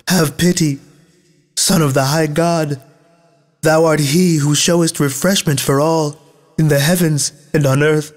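high-pitched, sustained supplication; exclaimed plea. A narrator's reading. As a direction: plead for mercy as one voice of the punished, pitched high without shouting. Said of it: "exclaimed all with one voice".

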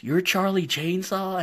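put-on high, slow, stunned kid's question; a boy who can't believe who he's meeting; mock-shocked high squeal of a name; shocked disbelief. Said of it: "from being all happy to just shocked".

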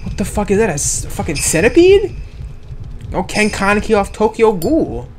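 high, loud startled outburst; freaked out at the monster; scared horror game streamer. Real, not acted. Sees centipede monster.

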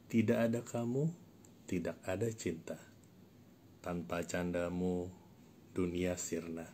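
measured poem reading with long pauses; unhurried, deliberate verse delivery; poetry recitation. Acted. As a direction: recite it line by line, letting each phrase hang. Recites own short poem.

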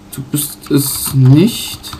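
slow teasing "Du bist es nicht." with a rise on "nicht"; playful rejection. Pretend. Gamer rejecting a Pokémon, slow teasing no. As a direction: draw out "nicht" upward like turning down a candidate.

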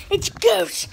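unvoiced mock-scared whisper. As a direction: breathe it out like a spooked kid. Pretend ghost scare.

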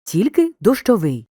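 slow, emphatic дощовий, stressed on final ВИЙ; stress on the ending. Shown as a demonstration. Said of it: "Але запам'ятай".

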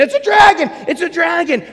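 high frightened shout; kids screaming. Acted. Frightened kids on the beach shouting in alarm. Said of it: "They start screaming".

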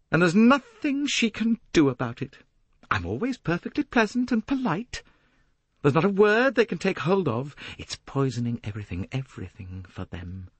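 high ringing voice, falling away at the end; clear, silvery. A narrator's reading. Jacqueline boasting of poisoning everything for them, clear and silvery. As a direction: ring out high and clear with triumph. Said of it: "Her voice rang out, clear and silvery".

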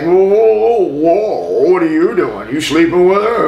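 loud, high mock challenge; retold tipsy guys shouting back; drunk confrontation. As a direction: bristle up like a drunk looking for a fight. Drunk guys turn on him.

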